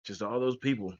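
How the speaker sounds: muffled mic, like underwater. Real, not acted. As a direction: sound muffled, far behind the mic. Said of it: "You're, you're muffling".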